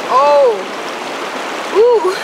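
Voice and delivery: high, loud gasps of shock; cold shock gasp. Real, not acted. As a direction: yelp from icy water. Entering icy river.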